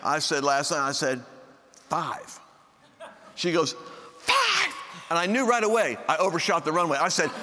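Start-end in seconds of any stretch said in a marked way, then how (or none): 1.9-2.4 modest offer. Retold or imitated. Husband naming an offering amount to his wife, quietly. 4.2-4.7 high-pitched mock disbelief; incredulous wife. Wife balking at her husband's small offering, incredulous.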